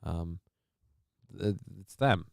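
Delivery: a light, dry public-radio read that sounds earnest; NPR newscaster voice. Acted. Streamer answers a viewer's chicken complaint as a lightly voiced NPR newscaster. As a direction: play it like an emotionally invested radio host who is really deadpan. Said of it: "I'll do my N P R newscaster".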